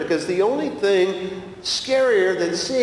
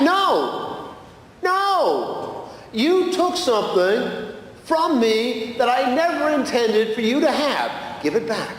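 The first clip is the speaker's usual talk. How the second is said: insistent Jesus; 5 semitones higher, slower than usual. Retold or imitated. Jesus voiced in retold dream.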